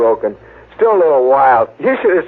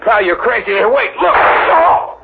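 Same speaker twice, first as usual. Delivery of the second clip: startled gasp; 7 semitones higher, slower than usual. Acted. Man pulls a gun.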